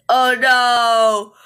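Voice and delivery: loud drawn-out cry of dismay; mock alarm. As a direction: wail it loudly in play alarm.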